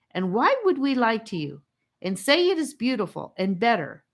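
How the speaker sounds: put-on high, loud angry boy; furious, exasperated tirade; demanding angrily. A narrator's reading. Charlie demands angrily that the captives think. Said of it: "he demanded angrily".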